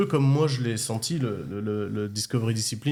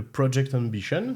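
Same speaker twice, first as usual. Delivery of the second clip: Californian English accent; 2 semitones higher than usual. Shown as a demonstration. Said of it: "avec l'accent anglais, euh, californien surtout".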